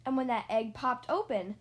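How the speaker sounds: put-on reading a picture book aloud to children; story narration. A narrator's reading. Reader telling children about Mister and Missus Bird, storybook narration. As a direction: tell it like a bedtime story.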